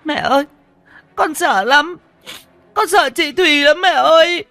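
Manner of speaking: loud frightened crying. Acted. Little boy terrified of the ghost cries out to his mother. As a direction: wail to mother in fear. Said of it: "khóc váng cả lên".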